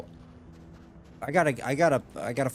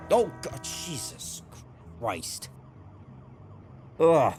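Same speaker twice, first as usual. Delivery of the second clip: scared horror game streamer; 3 semitones higher, much slower than usual. Real, not acted. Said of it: "Fucking jump scared me".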